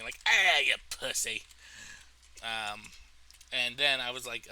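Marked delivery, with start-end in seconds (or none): 0.3-1.4 mock Brooklyn accent. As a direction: imitate a Brooklyn loudmouth jeering. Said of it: "someone from Brooklyn".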